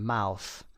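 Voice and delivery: "mouth" with a full ow glide; slow, clear "mouth" with ow vowel; diphthong ow. Shown as a demonstration.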